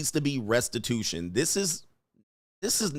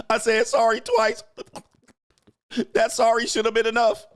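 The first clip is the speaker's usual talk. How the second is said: mocking the woman; 7 semitones higher than usual. Host parodying the woman's apology to viewers, higher mocking whine. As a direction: ham up her excuses in a lifted mocking voice.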